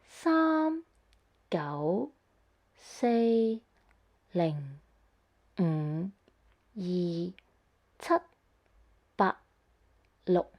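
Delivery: Sam, gao, say, ling, mm, yi, tat, ba, lo said as the nine Cantonese tones in order; Cantonese tone demo. Shown as a demonstration. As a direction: sing each number's tone clearly, one by one. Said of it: "The nine tones sound like this".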